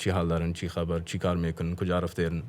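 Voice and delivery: rigid, straight Dari Farsi lines. Shown as a demonstration. Guest shows how rigid Dari Farsi sounds. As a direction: keep it stiff and formal. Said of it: "kind of like ... It sounds more rigid".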